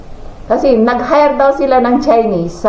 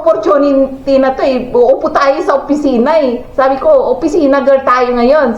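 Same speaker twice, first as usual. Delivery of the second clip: higher-pitched, exasperated scolding; retold anger; 5 semitones higher than usual. Mother scolding her daughter over a missed job, exasperated. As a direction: push her hard, half-mock annoyed. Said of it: "galit na galit ako eh".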